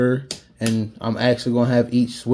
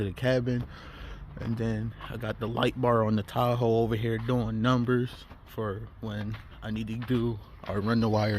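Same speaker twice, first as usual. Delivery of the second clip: shivering; 5 dB quieter than usual. Real, not acted. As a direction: voice shaking from the cold. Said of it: "Sorry it sound like I'm shivering right now".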